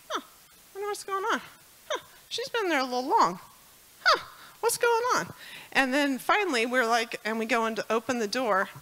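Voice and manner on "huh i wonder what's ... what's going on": retold musing, voice high and tearful; tearful wondering. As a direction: wonder aloud through tears. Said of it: "I wasn't this emotional for a service".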